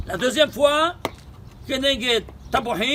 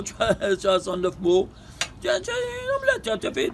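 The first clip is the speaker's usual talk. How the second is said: amused laughing. Real, not acted. Teacher jokes to students that the count is ruined, laughing. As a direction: chuckle through the words. Laughs at his omelette image.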